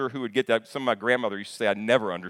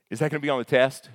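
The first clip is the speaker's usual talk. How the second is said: a quick, louder eager student voice; student asking; 3 semitones higher, 6 dB louder, faster than usual. Retold or imitated. Student in class blurts out to the teacher, quick and eager. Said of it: "someone in the class asking this question".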